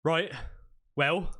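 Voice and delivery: stall, slightly rattled, word by word; a bit flustered. Acted. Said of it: "you can tell that he's a bit flustered".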